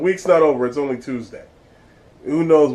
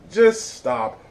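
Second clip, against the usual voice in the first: louder plea; 7 semitones higher than usual. Real, not acted.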